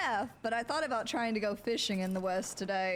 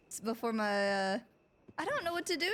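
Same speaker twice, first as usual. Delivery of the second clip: ordinary talk, nothing marked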